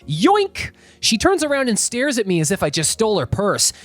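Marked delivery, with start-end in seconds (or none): 0.0-0.7 high-pitched playful yoink, rising at the end; playful, high exclamation that swoops upward; loud, playful. A narrator's reading. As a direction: call it out playfully like a cheeky snatch. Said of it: "loudly, playfully announce".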